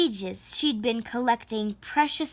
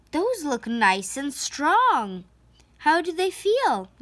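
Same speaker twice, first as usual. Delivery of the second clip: mild mama; 4 semitones higher than usual. Acted. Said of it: "asked Mama".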